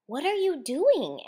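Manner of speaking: can't believe his eyes; surprised. A narrator's reading. Surprised at truck of chips.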